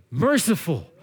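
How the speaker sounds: "Merciful" set alone between pauses; stress on MERCIFUL. Shown as a demonstration. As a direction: give "Merciful" its own moment. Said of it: "emphasize a different word".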